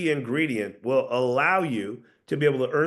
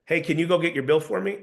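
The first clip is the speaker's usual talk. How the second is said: "bill for me" said as a certain statement; assured, level request; downward tonality; 2 semitones higher than usual. Shown as a demonstration. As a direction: ask "can you go" without seeking permission. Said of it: "Did you guys notice the inflection".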